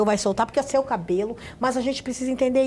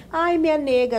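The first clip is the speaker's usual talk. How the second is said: chamado afetuoso, um pouco mais agudo; entonação carinhosa de família; 4 semitones higher than usual. Shown as a demonstration. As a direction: exemplo de apelido dito com carinho em casa. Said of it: "existe dois tipos de entonação". (tom carinhoso de quem é de casa)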